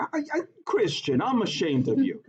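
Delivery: mock shame. Teacher mock-scolds student.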